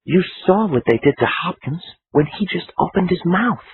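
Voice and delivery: uneasy man objecting to Conlon; Rooney's voice. Acted. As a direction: ask it with nervous doubt. Narrator voices Rooney, higher.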